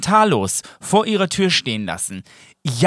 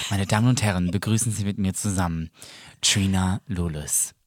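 grand entrance announcement; 9 semitones lower, 7 dB quieter than usual. Acted. Host announces guest like showmaster.

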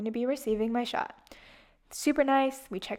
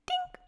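mock ding sound; 5 dB quieter than usual. Imitating the shot's sound.

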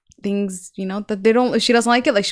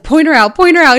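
louder each time, insistent; demanding, rising loud; 3 semitones higher, 4 dB louder than usual. Retold or imitated. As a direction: push harder with each repeat. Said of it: "and then I was like".

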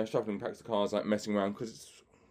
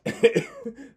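high burst of laughter; 4 dB louder than usual. Real, not acted. Laughs at own trick story.

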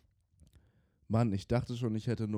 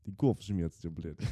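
put-on slow heavy Russian accent; 3 semitones lower, 3 dB quieter, slower than usual. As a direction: say Kopfschmerztablette the Russian way, slowly. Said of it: "mit russischem Akzent ausgesprochen".

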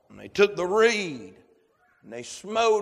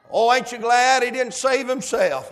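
loud, high burst of rejoicing; fervent preaching exclamation; 7 semitones higher, 7 dB louder than usual. Real, not acted. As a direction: exclaim it to the congregation with raised voice.

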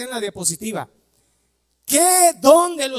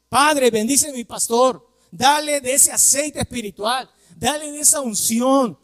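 model prayer; 3 semitones higher than usual. Shown as a demonstration. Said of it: "Así mismo".

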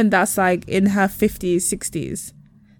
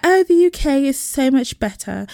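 mocking smug people; 6 semitones higher than usual. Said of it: "People wanna be like".

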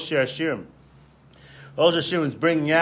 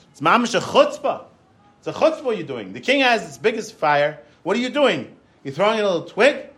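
higher-pitched mock outrage at the nerve; retold indignation; 4 semitones higher than usual. Visitor objecting to a twig in the king's fire, indignant. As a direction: scold with rising, incredulous questions. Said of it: "the guy was angry".

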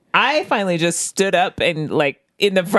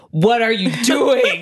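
exasperated boss; 5 semitones higher, slower than usual. Retold or imitated. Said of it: "was like".

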